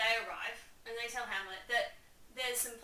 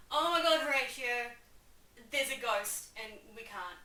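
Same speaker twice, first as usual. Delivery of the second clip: mock panicked guard, loud at first; hammed-up alarm at a ghost; 7 dB louder than usual. Guards yelling to Horatio about a ghost. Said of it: "They're like".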